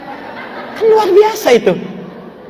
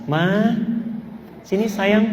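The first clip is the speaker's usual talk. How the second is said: softly coaxing husband; very sweet endearment; 8 dB quieter, slower than usual. Acted. Husband calls wife over despite salty noodles, very sweetly. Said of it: "ucapan yang sangat manis".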